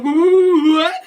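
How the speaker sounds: high, loud, stretched-out "what"; hammed-up shriek of shock; Peter freaking out. Peter reacting to dying Captain Stacy, freaked-out yell. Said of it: "Peter freaks out".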